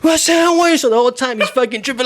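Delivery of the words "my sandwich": high, loud mock wail over the sandwich. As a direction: whine it out, hammed up and much higher. Guy wails over lost sandwich.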